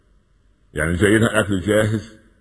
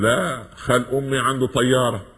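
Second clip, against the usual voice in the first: higher, slow boast; bragging one-upper; 6 semitones higher, slower than usual. Retold or imitated. Preacher mimics a show-off boasting about his uncle, high and slow. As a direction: stretch the brag like a show-off topping everyone. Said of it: "يقول".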